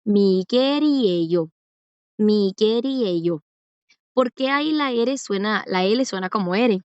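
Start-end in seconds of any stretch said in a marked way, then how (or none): 0.0-1.5 "Miguel y ello" run together, L said as a tapped R; linked L as R. Shown as a demonstration. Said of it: "Si yo lo leo rápido, suena como". 2.2-3.4 "Miguel y ello" joined up, final L turned into a tapped R; linked L as R. Shown as a demonstration. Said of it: "Si yo lo leo rápido, suena como".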